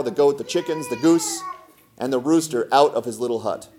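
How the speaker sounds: expressive storybook reading; story narration. A narrator's reading. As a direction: tell it as a folk tale, figures lightly voiced. Reads a folk tale aloud.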